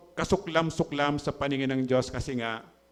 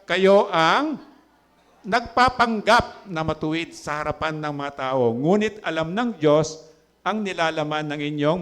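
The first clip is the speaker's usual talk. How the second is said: solemn scripture rebuke; 4 dB louder than usual. Acted. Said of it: "sinabi niya sa kanila".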